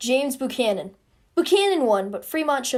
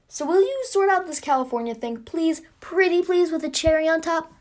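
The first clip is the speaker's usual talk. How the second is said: lightly wheedling, raised pitch; pleading; 5 semitones higher than usual. Acted. America begs Clay to sort out California, pleading. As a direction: coax sweetly in a higher voice.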